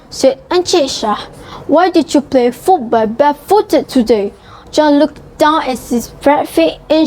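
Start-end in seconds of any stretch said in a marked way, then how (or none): 1.7-4.3 father voice. Acted. Father questions son.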